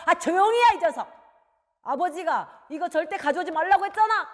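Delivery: loud, high-pitched reprimand; angry father. Acted. Father forbidding the book again, angry. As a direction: cut the child off sharply. Father silences pleading son.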